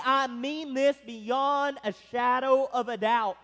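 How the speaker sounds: firm emphasis on "beyond a shadow of a doubt"; forceful insistence. Acted. Preacher voicing someone today vouching for their word, forceful insistence. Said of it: "trying to communicate the force here".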